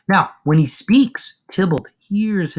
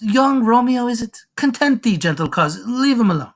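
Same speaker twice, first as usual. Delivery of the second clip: good-humored host; 8 semitones higher than usual. Acted. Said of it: "he's in a good mood".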